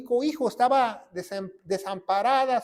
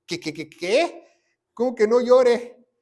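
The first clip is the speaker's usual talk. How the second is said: imitating the widow's outraged disbelief, rising louder; indignant widow; 2 semitones higher, 6 dB louder than usual. Imagined widow, mildly outraged. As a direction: widow balks at being told not to cry. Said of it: "me imagino a la viuda ahí que dice".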